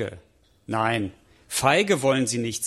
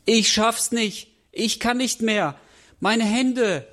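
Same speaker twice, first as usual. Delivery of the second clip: crying; 7 semitones higher, slower than usual. Acted. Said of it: "weint Nelly".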